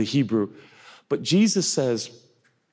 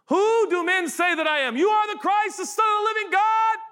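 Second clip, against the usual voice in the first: excited replay. Acted. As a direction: burst out with joy on the last words. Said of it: "God was just like".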